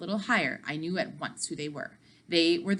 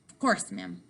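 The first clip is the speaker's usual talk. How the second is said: polite waiter; 13 semitones lower than usual. A narrator's reading. Waiter replies to grandmother.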